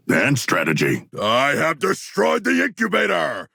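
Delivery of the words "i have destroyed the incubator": triumphant shout. Acted. Combat triumph bark.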